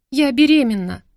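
high, loud tearful squeak; sister's squeak. A narrator's reading. Younger sister confesses to family, high squeaky blurt. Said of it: "писк сестры".

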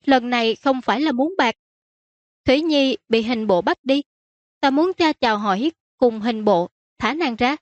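pleading princess. Acted. Princess asking her father to free a friend, pleading.

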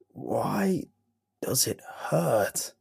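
slow unvoiced rasp; pained creature whisper. A narrator's reading. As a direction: whisper it as if everything hurts. Creature asks in pain.

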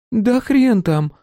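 slow resigned scoff; resigned snort. A narrator's reading. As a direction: scoff at it, defeated. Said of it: "фыркнула Василиса обречённо".

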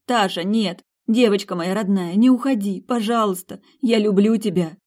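mother begging her daughter not to leave, tearful cry; desperate pleading. A narrator's reading. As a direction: plead through tears not to let her go. Mother begs vanishing daughter.

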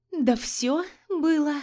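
slow, drawn-out words; drawling. A narrator's reading. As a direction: stretch every word out. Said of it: "растягивая слова".

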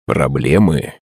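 low threatening villain line. Acted. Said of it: "голосом злодея".

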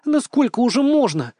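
high, loud exasperated protest; fed up and complaining, voice jumping up. A narrator's reading. Granddaughter complaining to grandmother, loud exasperated protest. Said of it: "растерженно заявила".

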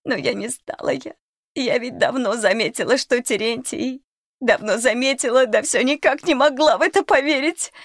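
a scared crone blurting it all out; frightened old cook. Acted. Old cook confesses to the children, frightened crone.

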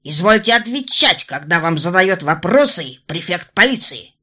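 loud commanding yell at a suspect. Acted. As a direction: bellow an order as police prefect. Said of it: "орал Фабри".

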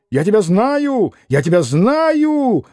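как заевшая пластинка; stupid repetition. Acted. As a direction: keep harping like a fool. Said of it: "наладил, как дурак".

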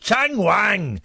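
Chang Wang with twanging, stretched vowels; mock echo. Host parroting caller's reading of Chang Wang, mock twang. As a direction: ring out "Chang Wang" like a silly catchphrase. Host echoes name mockingly.

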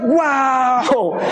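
high, drawn-out wow of delight; an older person marvelling at fireworks, wow; awed wow. Retold or imitated. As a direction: say wow like a child in awe. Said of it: "They're like".

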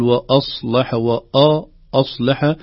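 وأصلح with a full صاد between thin sounds; correct demonstration. Shown as a demonstration. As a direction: say وأصلح slowly with a heavy صاد. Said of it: "فينبغي أن نقول".

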